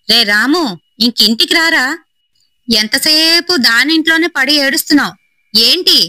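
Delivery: high calling father from next house; high, impatient yell across the yard. Acted. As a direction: shout for the son to come home. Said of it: "అని అరుస్తున్నాడు".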